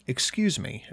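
softly and kindly; gentle. Acted. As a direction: speak gently to a frail old woman. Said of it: "I said gently".

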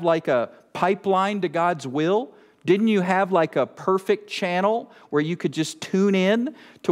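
teasing, sarcastic questioning; mock incredulous. Preacher asking Paul about his pipeline to God, mock incredulous. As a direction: pile up questions in mock disbelief.

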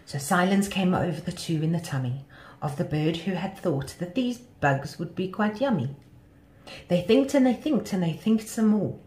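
lilting read of a rhyming tale; children's story narration. A narrator's reading. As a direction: tell it to children, line by line.

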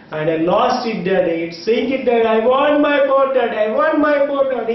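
pleading child, mildly acted; imitated crying. Son crying to his father by the river, mildly acted pleading. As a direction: plead like an upset little boy, no real sobs. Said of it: "he's crying".

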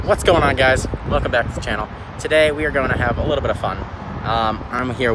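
muffled behind cloth mask; speaking with mouth covered; through a face mask. Real, not acted. Seen 0: Cloth mask covers nose and mouth while he talks; down in refs.

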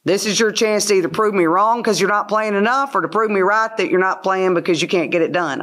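retold blunt huddle challenge; coach's huddle talk. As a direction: lay down a challenge to your team. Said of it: "I tell them in the huddle".

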